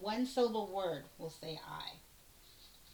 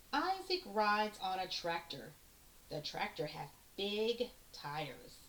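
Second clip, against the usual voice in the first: put-on reading aloud to children. Shown as a demonstration. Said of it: "read this line again to you".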